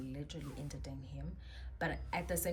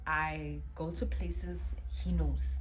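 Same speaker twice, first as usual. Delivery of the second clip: slow, breathy whisper; 6 dB louder, slower than usual. Shown as a demonstration. Telling friends about the stalker, in a slow whisper. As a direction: hush it like a spooky secret. Eerie whisper, then plain repeat.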